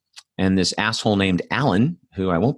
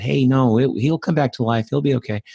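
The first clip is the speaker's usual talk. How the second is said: lightly voiced child, higher pitch; reassuring small child; 6 semitones higher than usual. Scared four-year-old falsely reassures his friend, lightly voiced high. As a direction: lightly imitate a little kid's higher reassurance.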